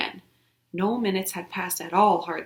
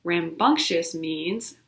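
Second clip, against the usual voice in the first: slow, careful explaining; much slower than usual. Acted. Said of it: "May's voice interrupted".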